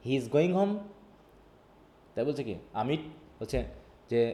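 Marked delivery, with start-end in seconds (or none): 0.1-0.7 statement wording, HOME lifted into a question; rising question tune. Shown as a demonstration. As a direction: turn it into a question with a rise on "home". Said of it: "এটা না বলে বললাম কি". ("home"-এ সুর তুলে প্রশ্ন)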